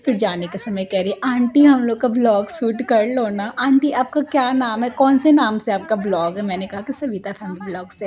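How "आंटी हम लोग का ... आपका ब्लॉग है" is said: lightly voiced girls pleading with aunty; a touch higher, imitating eager questions; imitated eager girls. Girls asking aunty to shoot their vlog, imitated eagerness.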